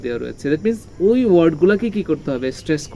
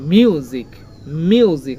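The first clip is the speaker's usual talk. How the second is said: মিউজিক louder, pressed on opening m; stress on M; 4 dB louder, much slower than usual. Shown as a demonstration. Teacher drilling pupils, stressed মিউজিক. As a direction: hit the first sound of মিউজিক. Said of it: "এখানে ম এর উপরে stress রয়েছে".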